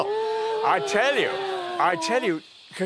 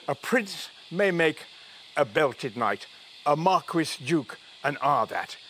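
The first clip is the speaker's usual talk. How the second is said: put-on slow, measured stab at a Scottish accent; attempted Scottish accent; slower than usual. Man reciting a Burns verse his friend taught him, attempted Scottish accent. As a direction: recite slowly in a light imitation Scottish lilt. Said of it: "her Scottish accent, but it went, it went something like this".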